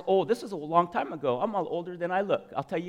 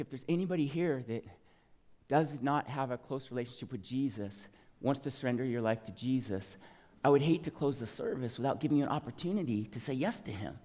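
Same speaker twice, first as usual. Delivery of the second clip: softer, lower, gentle altar-call voice; calm reserved pastor; 5 semitones lower, 10 dB quieter than usual. Retold or imitated. Pastor's altar call to the congregation, calm and understated. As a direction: invite them in quietly, no pressure. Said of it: "He was more calm, more reserved".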